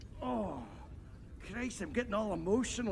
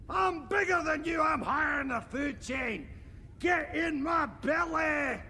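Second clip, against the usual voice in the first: gleeful bellowing threat; 5 semitones higher than usual. Acted. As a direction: roar it like a hungry giant. Boasting threat at a baby.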